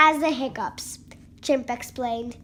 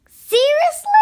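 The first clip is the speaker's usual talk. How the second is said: exasperated; 12 semitones higher, 7 dB louder than usual. Acted. Exasperated at elephant sneezing.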